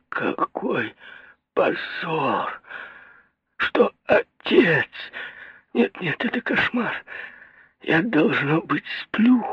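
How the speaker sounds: high, crying moan, very slow at first. A narrator's reading. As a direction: wail it out in despair. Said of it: "простонала она".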